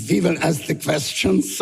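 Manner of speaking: lightly put-on stage German accent; a mock German villain line, played for laughs. Actor auditioning in a hammed-up German accent. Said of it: "You do German?".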